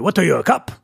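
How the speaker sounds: retold driver's line in a light Persian accent. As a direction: imitate a Persian cabbie challenging the passenger. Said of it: "why I'm doing the accent".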